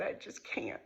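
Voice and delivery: breathless whispered I just can't. Retold or imitated. Whispering to her friend in the car, voice gone. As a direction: barely get the words out, no voice.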